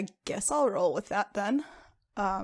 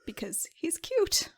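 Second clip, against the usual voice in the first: whispered, a little slower; teasing whisper; 9 semitones higher, slower than usual. Real, not acted. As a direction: whisper it like a secret. Player teasing aside about Leander.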